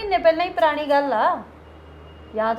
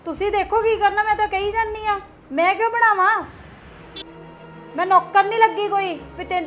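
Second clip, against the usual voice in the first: defiant arguing; 5 semitones higher than usual. Acted. Daughter argues back defiantly.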